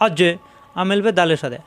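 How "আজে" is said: আজে with the consonant pushed into a short echo; bouncing qalqala. Shown as a demonstration. Teacher drilling qalqala, আজে with a pushed bouncing release. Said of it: "প্রত্যেকবার ধাক্কা হবে".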